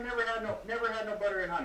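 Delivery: fast, laughing near-shout; laughing shout about no honey; laughing rant. Real, not acted. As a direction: blurt it out while cracking up. Ranting about missing butter.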